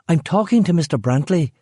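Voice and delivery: high, sharp mother's bark; barked order. A narrator's reading. Rachel scolding Claire in front of Eric, high sharp bark. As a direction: bark it at a defiant daughter. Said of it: "Rachel barked".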